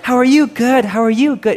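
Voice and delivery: high, chirpy mock small talk; sing-song fake cheer; fake happy clappy. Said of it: "the, like".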